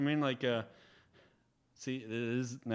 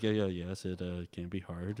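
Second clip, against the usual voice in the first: imitating Ben quietly; 5 semitones lower, 4 dB quieter than usual. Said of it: "this is a terrible impression of you".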